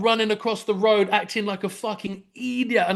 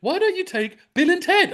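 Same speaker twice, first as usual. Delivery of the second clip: retold question; 10 semitones higher than usual. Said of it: "the baby mother's going".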